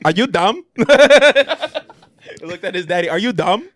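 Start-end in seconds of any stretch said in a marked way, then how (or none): 0.1-0.6 mock sneer. Acting villain insulting his father. 3.1-3.7 mock sneer. Acting son insulting dad.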